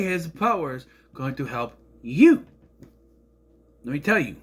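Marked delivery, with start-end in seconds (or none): 2.0-2.4 emphatic. Real, not acted. Arguing with Jor-El's logic.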